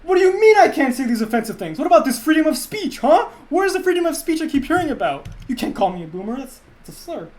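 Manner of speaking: loud, high indignant boomer, subsiding at the end; blustering boomer rant that fades out; outraged boomer. Acted. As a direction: protest like an offended boomer, then tail off. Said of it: "That's a boomer right there".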